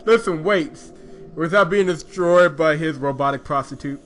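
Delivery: high, loud incredulous rant; exasperated rant. Real, not acted. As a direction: vent in disbelief. Outraged rant about the scene.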